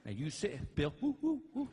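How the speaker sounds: mild calling whoops; lightly voiced wife calling. Wife checking on stoned husband, mild calling whoops. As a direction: call his name to get his attention. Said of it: "my wife goes".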